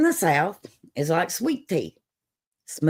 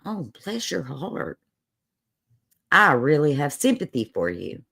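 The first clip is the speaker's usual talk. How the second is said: tender and consoling; sympathetic; 2 semitones lower than usual. Shown as a demonstration. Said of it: "I say it like".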